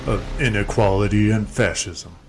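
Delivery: booming movie trailer announcer voice; wrestling promo. Acted. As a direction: hype it up like a fight promo. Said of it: "I'm trying to do a promo here".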